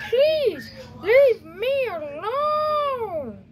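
slow drawn-out whine, close to tears; whiny plea. Acted. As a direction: stretch every word like you're begging to sleep. Kid begs visitor to leave.

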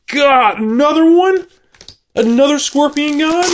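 high, rising disbelief; real astonishment, pitch climbing into the question; incredulous outburst. Real, not acted. Opener pulls another Scorpion God, high incredulous cry.

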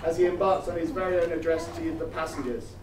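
airline cabin announcement voice; mock in-flight PA announcement; flight attendant. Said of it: "Sorry, I mean guests".

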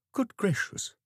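a startled breath of a line; a hint of a faint startled vicar. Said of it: "he said faintly".

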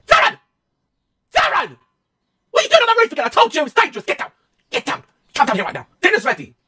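shrill mum yelling from below; calling kids to dinner. Pretend. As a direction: mum calling her son off the roof. Voicing a mum on the roof.

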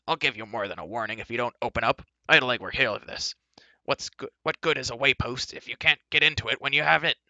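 loud, rising angry tirade; furious dwarf. A narrator's reading. Dwarf berates doorkeeper for not opening up, furious. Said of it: "He gave a furious kick".

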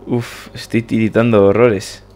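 feverish character. Acted.

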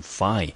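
fy said alone, falling; teacher sounds out fy; syllable fy. Shown as a demonstration. Teacher splitting the word, fy said clearly. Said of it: "我们就念成fy".

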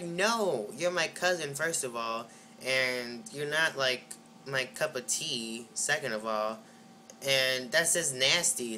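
mildly disgusted, drawn-out refusal; emphatic rejection. Retold or imitated. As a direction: count off objections slowly and deliberately. Acted rejection, counting off objections.

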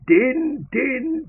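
high-pitched call across the camp. Acted. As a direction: call his name sharply, pitched high. Soldiers calling the water-carrier.

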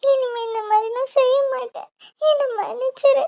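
teary, pleading sorry; crying apology. Acted. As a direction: sister still weeping as she apologizes. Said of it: "சரி, அழுகாத".

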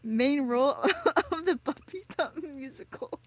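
laughing through the words; amused, laugh-broken announcement. Real, not acted. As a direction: tease with giggles breaking in. Teasing, laughs through mock audition.

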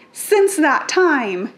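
normal talking voice

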